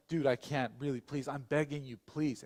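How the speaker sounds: imitated pleading, only mildly urgent. Man begs to stay at his house, mild pleading. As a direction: lightly act out begging a favour. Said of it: "he starts pleading with me".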